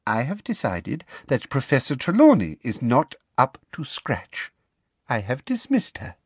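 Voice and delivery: a hint of prim bureaucratic relish; lightly voiced Umbridge. Inquisitor lecturing Dumbledore on her decree, smug and officious.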